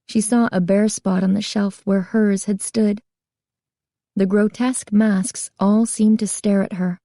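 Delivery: plain reading voice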